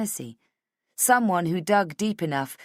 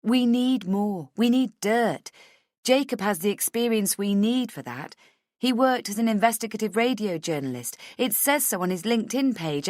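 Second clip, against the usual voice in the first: higher-pitched, emphatic argument; eager, raised-pitch persuasion; insistent Rachel; 5 semitones higher, 3 dB louder than usual. Acted. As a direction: make the case forcefully. Voices Rachel arguing her case.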